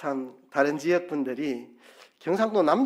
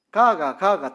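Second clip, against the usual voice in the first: louder Gyeongsang intonation "가가, 가가"; 4 semitones higher, 7 dB louder, slower than usual. Shown as a demonstration. Preacher demonstrating dialect, a loud Gyeongsang "가가". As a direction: sing the "가가" tones the Gyeongsang way. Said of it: "이 말을 경상도에서는".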